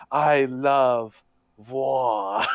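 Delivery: a light imitation of a cartoon villain relishing "war"; mock Nazi villain. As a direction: savor "war" like the abridged villain, but only a little. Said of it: "the way he says war sounds a lot like the".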